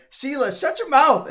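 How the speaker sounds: high, loud, slow yell; mock angry shout. Kate Sith yelling at Yuffie, a high slow shout. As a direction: bellow at her to shut up. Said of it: "Kate Sith's all like".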